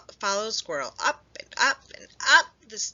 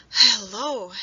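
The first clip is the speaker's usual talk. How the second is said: loud, breathless hello; startled hello; 3 semitones higher, 8 dB louder than usual. A narrator's reading. Squirrel startled by Hedgehog, breathless hello. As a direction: blurt it out, caught off guard. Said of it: "gasped Squirrel".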